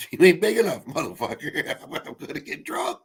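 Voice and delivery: mock defiance breaking into laughter; laughing retelling. Retelling what he told his friend at the door, laughing. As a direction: punch the opening, then dissolve into laughs.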